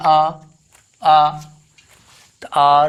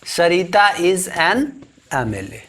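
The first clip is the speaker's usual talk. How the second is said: slow example; slower than usual. Shown as a demonstration. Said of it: "यहाँ एन का प्रयोग करेंगे".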